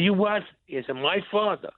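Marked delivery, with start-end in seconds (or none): 0.0-0.4 high-pitched retold disbelief; incredulous. Son hearing his father's secret, incredulous. Acted shock at news about father. 1.0-1.7 high, disbelieving echo; incredulous. Retold or imitated. Son questioning news about his father, incredulous.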